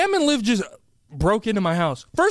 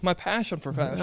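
softer, sing-song My passion for fashion; rhyming flourish; 6 dB quieter than usual. Shown as a demonstration. Co-host savoring his rhyme, sing-song. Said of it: "Okay, Seuss".

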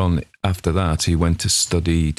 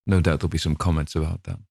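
plain reading voice

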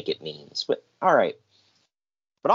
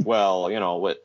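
lower, mumbling mock excuse; lightly voiced squirming boss; sheepish excuse; 5 semitones lower than usual. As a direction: dodge the blame lamely. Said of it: "And he's like".

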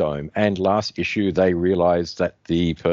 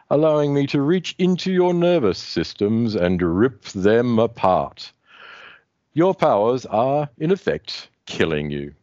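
Grimbor villain; 2 semitones higher than usual. Acted. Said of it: "Grimbor continues on".

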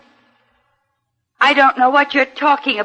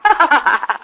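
unhinged laugh. Acted. Amy laughs holding knife.

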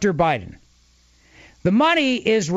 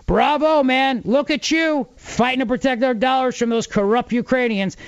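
mock cheering; 5 semitones higher than usual. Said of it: "the media rallies around Joe Biden and goes".

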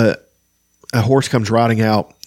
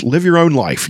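higher-pitched, heated reproach; frustrated outburst, pitched up; angry, flushed; 8 semitones higher than usual. A narrator's reading. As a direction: push it out angrily, voice raised in pitch. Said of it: "Sturm said, his face flushed".

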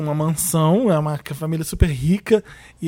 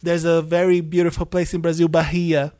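a hint of an American tourist saying "Bahia" with an H; mild American accent, "Bahia" with a breathy H; 3 semitones lower than usual. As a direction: lightly imitate an American accent. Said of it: "ela falou Bahia".

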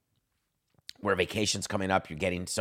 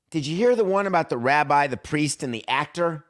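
louder, higher comedian setup; joke-teller setup; 5 semitones higher, 4 dB louder than usual. Pretend. A jocular offer pitched as a comedian's joke. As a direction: sell it like a stand-up opening a joke. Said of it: "not a serious offer".

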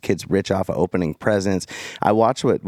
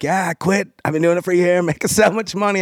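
put-on South African accent; 9 semitones higher than usual. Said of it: "I heard that South African accent".

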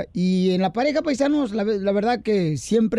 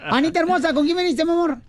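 mock flirty; 7 semitones higher than usual. Host flirting with guest.

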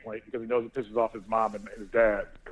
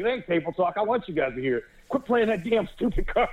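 mock outburst; 7 semitones higher than usual. Arguing over table talk rule.

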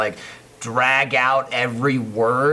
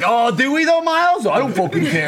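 much higher, louder sarcastic brush-off, laughing at the end; mock dismissive; 9 semitones higher, 4 dB louder than usual. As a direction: needle the director with fake attitude. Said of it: "And it's like".

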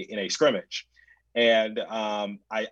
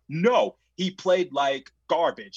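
higher, slow, insistent comeback; mock heated argument with the parent; confrontational retort; 6 semitones higher, 3 dB louder, slower than usual. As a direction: push back in his face, drawn out. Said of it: "I'm getting in that parent's face".

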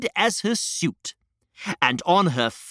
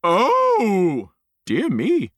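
dismayed queen; 2 semitones higher, much slower than usual. Acted.

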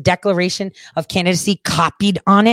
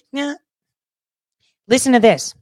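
ordinary talk, nothing marked

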